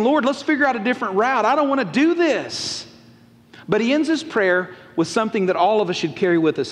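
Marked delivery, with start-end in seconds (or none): 0.0-2.9 higher-pitched, emphatic pleading; reluctant plea. Acted. Jesus begs God for another route, reluctant. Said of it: "He's saying".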